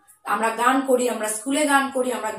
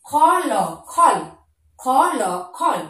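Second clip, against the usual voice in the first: slow spelling; 4 dB louder, slower than usual. Shown as a demonstration. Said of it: "তারপর দেখো খ".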